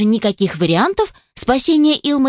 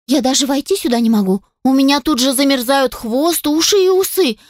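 rising alarm, getting more worked up; agitated exclaim; 6 semitones higher than usual. Acted. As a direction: pitch climbing higher and higher. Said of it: "взволнованно воскликнула Алисия".

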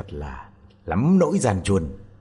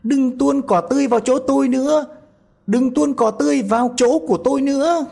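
very high, loud panicked yell; frightened scream; 5 dB louder, faster than usual. A narrator's reading. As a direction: scream in panic from inside the cow. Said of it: "hoảng sợ, nó thét tướng lên".

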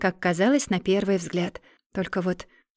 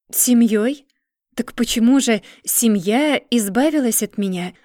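bitter; 3 semitones higher, 4 dB louder than usual. Acted. Bitter challenge to relatives.

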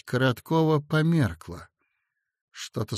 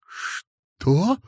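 overjoyed cry; 6 semitones higher than usual. A narrator's reading. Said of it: "не помня себя от радости, крикнул".

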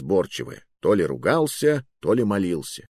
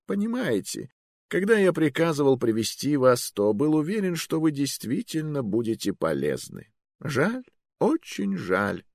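put-on disappointed old magister; 7 semitones higher than usual. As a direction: sigh over wasted hopes.

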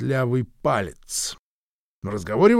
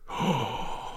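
gasp; 9 dB quieter than usual. A narrator's reading. Mary sees wound on head.

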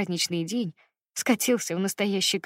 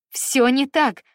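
"всё не так" cried out higher and louder, falling on "так"; loud desperate denial; 6 semitones higher, 7 dB louder, much slower than usual. Acted. Daughter denies, pleading.

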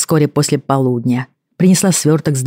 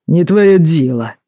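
snapping back; 2 semitones higher, slower than usual. Acted. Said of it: "огрызнулся новый подозреваемый".

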